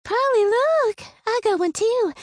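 high, loud, gleeful call across the yard; girl shouting triumphantly. A narrator's reading. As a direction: yell it proudly to a rival. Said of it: "Hazel shouts".

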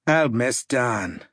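slow, wistful remembering of a friend. Acted. Harper mourns his fallen friend Dan, slow and wistful. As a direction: let it drag, missing a dead comrade. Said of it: "Patrick Harper said wistfully".

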